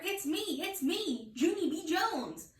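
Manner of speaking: high excited calling; hollering. Acted. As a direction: call out who you are. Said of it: "I hollered".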